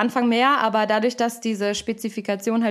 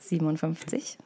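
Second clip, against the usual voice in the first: reading while fighting laughter; barely holding back giggles; giggly reading. Real, not acted. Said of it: "Ihr wolltet es so".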